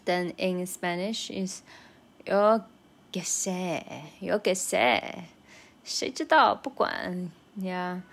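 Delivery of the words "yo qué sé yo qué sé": brusque, dismissive tune on yo qué sé; impatient yo qué sé. Shown as a demonstration. Brushing off a friend's question, impatient and brusque. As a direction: toss it off as if annoyed. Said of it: "this intonation is a little bit strong".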